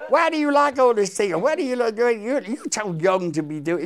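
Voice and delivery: high, loud, motherly coaxing voice; a singer's voice. Retold or imitated. A singer coaxing young Terry on the bus, high and loud. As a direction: playfully coax the young lad. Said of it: "I get to sit next to her".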